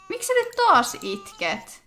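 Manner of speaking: exasperated high plea. Real, not acted. Baby crying again.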